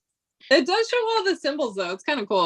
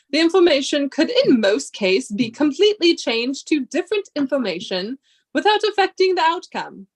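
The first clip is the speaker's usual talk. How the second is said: measured, solemn lecturing read; professor voice. Acted. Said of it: "do you like my professor, um, voice?".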